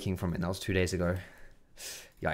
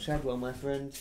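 softer, higher pet-greeting voice; affectionate dog talk; 5 semitones higher, 7 dB quieter than usual. Real, not acted. Fondly greeting his old dog.

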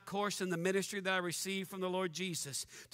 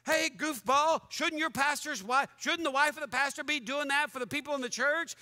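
raised, higher scolding of the author; 4 semitones higher than usual. Real, not acted. Preacher rebuking the blogging pastor, exasperated scold. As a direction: call him out with exasperation.

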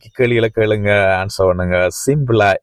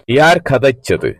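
slow model question; slower than usual. Shown as a demonstration. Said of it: "எப்படி கேக்குறேன்னு தெரியுமா?".

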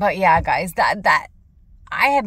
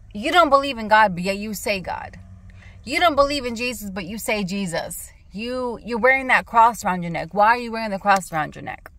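retold heated challenge; 2 semitones higher than usual. Retold confrontation.

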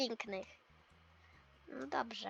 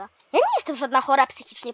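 mock yell; 7 dB louder than usual. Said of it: "byś tak na mnie nie krzyknęła".

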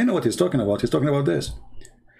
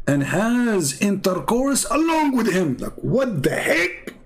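disbelieving; 7 semitones higher, slower than usual. Real, not acted. Outraged disbelief.

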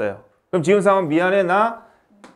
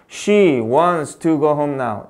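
slow dictation; 3 semitones lower, much slower than usual. Shown as a demonstration. Teacher dictating example sentence.

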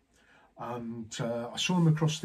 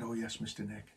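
blank; 4 semitones lower, 11 dB quieter than usual. Retold or imitated. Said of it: "he just looked at me blank".

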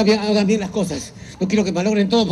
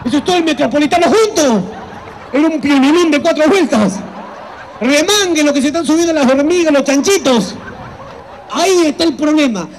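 shocked exclamation; 3 semitones higher than usual. Acted. Doctor shocked, laughing loudly.

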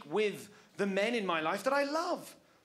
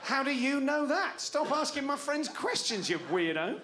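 mock indignant retort; 5 semitones higher than usual. Defensive retort to wife.

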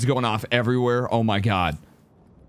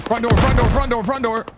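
loud, higher urgent callout; 8 semitones higher, 5 dB louder than usual. Real, not acted. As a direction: shout the alarm to your squad. Enemies storming the front door.

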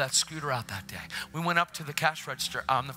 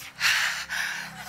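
imitated breathy gasp. Daughter's reaction, imitated.

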